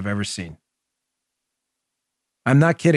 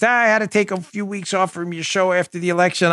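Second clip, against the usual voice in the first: a lightly higher lady's voice, a touch resigned; mild imitation of a woman at the fair; voicing the lady; 6 semitones higher than usual. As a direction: play the tired fan from the fair.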